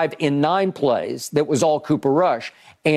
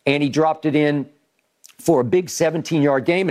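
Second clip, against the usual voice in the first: normal talking voice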